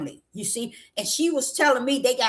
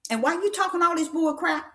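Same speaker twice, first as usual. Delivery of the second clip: higher questioning rebuke, without the blast; high-pitched challenge; 5 semitones higher than usual. Retold or imitated. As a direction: ask it high, scolding but not shouting. Repeats the scolding as a question.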